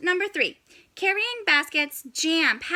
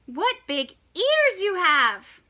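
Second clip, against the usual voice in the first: put-on wondering girl; 5 semitones higher, slower than usual. Girl questions disguised wolf.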